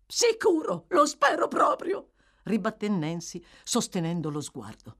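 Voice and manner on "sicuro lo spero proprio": defiant outburst. A narrator's reading. Nancy defiant retort to Fagin.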